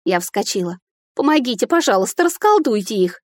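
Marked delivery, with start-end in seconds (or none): 1.1-3.2 higher, urgent pleading; begging. Acted. Heroine begging the fairy to undo the spell. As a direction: beg her to fix it now.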